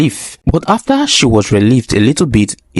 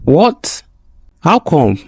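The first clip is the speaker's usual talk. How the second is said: high-pitched, startled outcry in narration; shocked exclamation; 5 semitones higher, slower than usual. A narrator's reading. Stepsister hears from father that her sister is unwell, shocked exclamation. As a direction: cry it out in disbelief, voice jumping up. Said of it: "she shouted".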